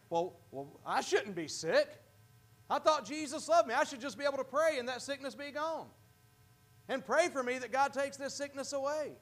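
lightly voiced self-pitying believer; whiny believer. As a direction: imitate a believer who feels wronged.

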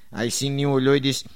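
ordinary delivery

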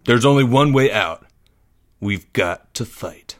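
firm, then slowing to a resolute close; rally them with grim resolve; determined. A narrator's reading. Boy leader rallying trapped friends, determined. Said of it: "said Greg with determination".

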